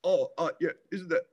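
lightly sends up a fan's cheery praise; mimicking a fan. Comedian mimicking fans who praise his story, mock cheery bloke. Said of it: "they're like".

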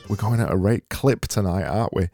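saying rate clip in a Yorkshire accent; Yorkshire twang on we're going at a rate clip. Shown as a demonstration. Host showing listeners the phrase in a Yorkshire accent. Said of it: "in a Yorkshire accent".

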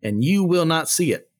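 measured, declarative Bible reading with lifted pitch; Scripture reading. Acted. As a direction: read it out to a congregation as Scripture. Reads Scripture aloud.

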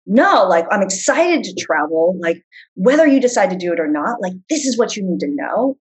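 emphatic travel-host enthusiasm, punching the opening word; excited, insistent pitch to viewers; passionate and excited. Shown as a demonstration. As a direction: let the passion show, against corporate monotone. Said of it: "it's something I'm really passionate about".

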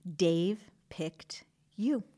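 tender reminder. Real, not acted.

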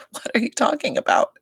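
hushed, stunned disbelief; a shocked whisper aside; incredulous whisper. Retold or imitated. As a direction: whisper it like you can't believe it. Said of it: "It's like".

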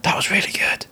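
high, airy mock amazement; retold praise. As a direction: quote him in a light, high half-whisper. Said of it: "and he was like".

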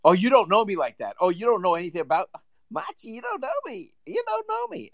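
brash boast that climbs into a squeal. Retold or imitated. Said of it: "He's just like".

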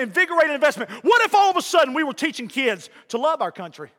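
driving pulpit cadence; insistent, rhythmic sermon delivery; fervent preaching. Real, not acted. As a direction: press each point home like a preacher. Preaching at full force.

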